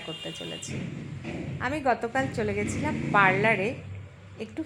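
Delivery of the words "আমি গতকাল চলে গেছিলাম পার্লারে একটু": husky, worn-out voice; hoarse voice. Real, not acted. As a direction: speak through a hoarse throat. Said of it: "আমার গলাটা বসে গেছে".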